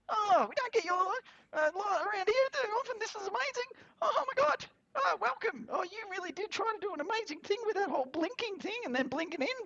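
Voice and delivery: very high, fast, excited little creature chattering; high squeaky creature welcoming then begging them to stay; chirpy gremlin voice. Acted. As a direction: gush like an overjoyed tiny mogwai greeting a guest.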